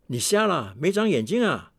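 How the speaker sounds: mock scolding, rising high at the end; lightly voiced angry son. Son yelling at his father in the dark, mild mock scolding. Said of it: "我儿子在骂我：".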